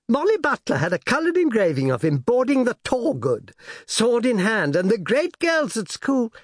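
high, breathless schoolgirl rapture; a girl swooning over a hero; gushing young girl. A narrator's reading. Daughter gushes to her father about Jack Aubrey, high and breathless.

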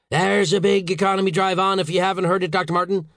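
high-pitched sarcastic outrage; exasperated boss; angry howl. A narrator's reading. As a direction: howl it at an underling. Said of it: "Saint George howled".

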